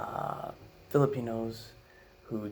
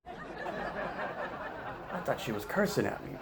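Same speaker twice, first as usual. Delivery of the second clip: laughing; 8 semitones higher, much slower than usual. Real, not acted. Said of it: "laughing narration".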